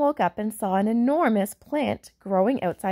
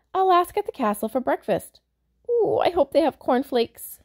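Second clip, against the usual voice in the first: put-on boy voice; 6 semitones higher than usual. Jim voiced, hoping for breakfast.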